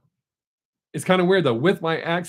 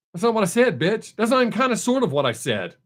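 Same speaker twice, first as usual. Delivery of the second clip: higher-pitched, indignant retort; exasperated mock arguing; 6 semitones higher than usual. Driver arguing with the car, mock exasperation. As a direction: retell it as a squabble with a machine.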